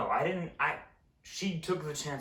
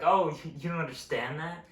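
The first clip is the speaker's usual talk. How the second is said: mock passive-aggressive; 2 semitones higher than usual. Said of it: "passive-aggressive smile that you see from soccer moms".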